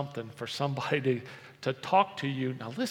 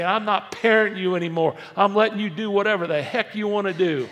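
loud, raised-pitch declaration; fed-up parent; 5 semitones higher, 8 dB louder than usual. Acted. Parent giving up on parenting the kids, loud exasperated outburst. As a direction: throw it at them at full volume. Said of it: "go to our kids and say".

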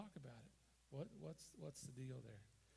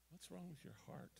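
usual speaking voice

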